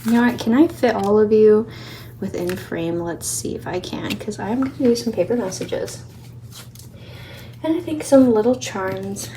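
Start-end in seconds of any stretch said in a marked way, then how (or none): 3.0-9.3 out of breath. Real, not acted. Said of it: "I am breathing so heavy".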